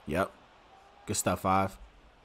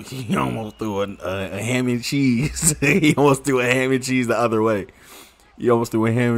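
laughing; 3 dB louder than usual. Real, not acted. Laughing at a near pick.

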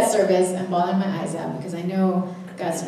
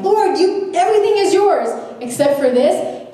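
higher, louder pleading; raised bargaining plea; mock bargaining plea; 7 semitones higher, 4 dB louder than usual. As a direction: voice the holdout believer. Listener's bargain with God.

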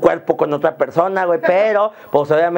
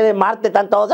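usual speaking voice

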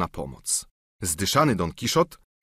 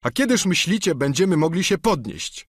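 higher, whining plea; pleading squire; 9 semitones higher than usual. Acted. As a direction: beg like a bruised peasant. Sancho voiced.

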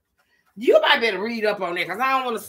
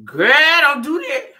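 startled laugh; 6 semitones higher, 8 dB louder than usual. Real, not acted. Startled by falling mustard.

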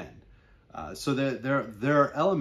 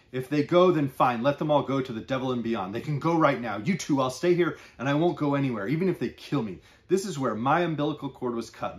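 raised, forceful husband declaring to his wife; proud old fisherman's defiance, pushed louder; defiant fisherman; 4 semitones higher, 5 dB louder than usual. Acted. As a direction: plant your feet and refuse to leave. Araz defies leaving, to wife.

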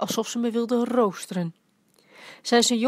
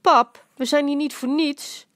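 mopperend; 5 semitones higher, 5 dB louder than usual. A narrator's reading. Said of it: "Mijn moeder mopperde".

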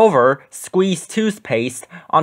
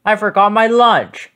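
fretting like a little monster; upset Grover; 6 semitones higher than usual. A narrator's reading. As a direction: Grover forgetting his lunch, upset. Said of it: "cried Grover".

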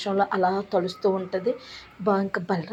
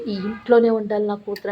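a louder retold cry of insistence; mother firmly insisting her daughter stays in this house, louder; retold shout; 5 dB louder than usual. Mother insisting her daughter stays home, mild mock shout. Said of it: "అని గట్టిగా అరుస్తది".

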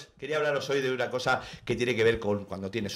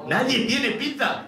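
slow, emphatic declaration; 11 semitones higher, 4 dB louder, slower than usual. Acted. Comic declaration.

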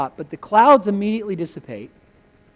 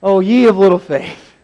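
loud, scolding exclamation; acted exasperated rebuke; stern rebuke; 7 dB louder than usual. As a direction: scold the faithless followers. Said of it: "he doesn't say that all piously".

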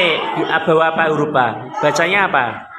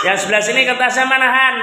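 calling out; 4 semitones higher, faster than usual. Real, not acted. Teacher calls across the class.

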